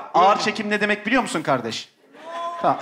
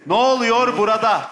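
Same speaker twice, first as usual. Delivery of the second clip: drawn-out slow-motion Ne oluyor burada. Shown as a demonstration. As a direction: stretch Ne oluyor burada slowly. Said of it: "ağır çekimde söyleyeceksin".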